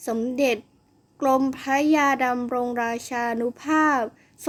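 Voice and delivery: only a touch gruffer, unhurried like a wise scholar; gruff grown-up voice. Acted. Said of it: "ทำเสียงห้าวและพูด ช้าๆ มีจังหวะเหมือนผู้ใหญ่". (เสียงห้าว พูดช้าๆ มีจังหวะเหมือนผู้ใหญ่)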